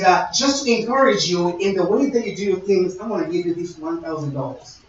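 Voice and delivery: softly confiding, a touch hushed; private praise. Pretend. Preacher privately praising a listener, softly. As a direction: quietly tell them you value them. Privately telling you, hypothetical gift.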